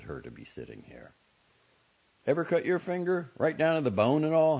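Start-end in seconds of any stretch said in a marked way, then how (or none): 2.3-4.6 lightly voiced goofy young man, appealing; a hint of a plaintive, dazed boy; injured brother seeking sympathy from a stranger. A narrator's reading.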